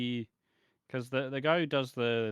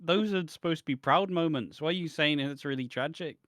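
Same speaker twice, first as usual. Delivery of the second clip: higher, baffled scolding; incredulous retort; 5 semitones higher, 4 dB louder than usual. Retold or imitated. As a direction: question him in disbelief. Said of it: "And it's like".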